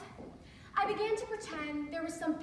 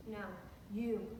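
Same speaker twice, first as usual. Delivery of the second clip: low, measured plea; quietly insist, pausing between phrases; gently voiced, serious boyfriend; earnest lover; 4 semitones lower, 6 dB quieter than usual. Acted lover's earnest request.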